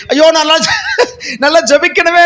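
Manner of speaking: slow, half-laughing fake sob; mock tearful plea. Preacher imitating a pious prayer cry, half-laughing mock sob. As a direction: sob it out with a chuckle. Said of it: "என்ற அந்த அழுகு இல்ல".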